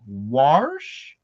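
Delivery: imitated drill sergeant repeating "warsh", drawn out and rising; questioning drill sergeant. Drill sergeant queries recruit's odd word, incredulous echo. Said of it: "And he goes".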